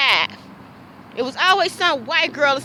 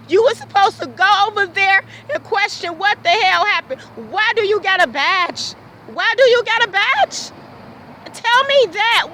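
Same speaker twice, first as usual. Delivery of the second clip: raised, furious voice at the officer; angry shouting; 4 semitones higher than usual. Real, not acted. Ranting at the officer who betrayed her, furious shout. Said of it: "I need to scream that out".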